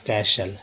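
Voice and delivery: castle without any T sound; silent T in castle. Shown as a demonstration. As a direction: say castle with the T dropped. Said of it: "टी को silent कर दिया गया". (castle में T silent)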